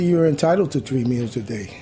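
"entitled" carries the main weight, falling after; stress on entitled. Real, not acted. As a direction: lean on "entitled", the rest level. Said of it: "Entitled is the key word".

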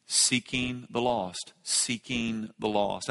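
"Seeking the lost" slow and soft, each word weighed; deliberate emphasis. Shown as a demonstration. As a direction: draw out "Seeking", then let "the lost" fall softly. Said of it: "feel the emphasis".

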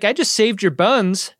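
mildly indignant tow-truck man; a touch of put-upon complaint. Retold or imitated. Yost complaining to the crew he rescued, mildly indignant. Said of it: "he's kind of indignant about this".

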